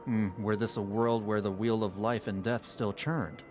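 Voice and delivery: lightly voiced, low and measured lore-teller; solemn sage. Sage explains what becomes of devoured souls, lightly solemn and low. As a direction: explain it gravely, with unhurried formality.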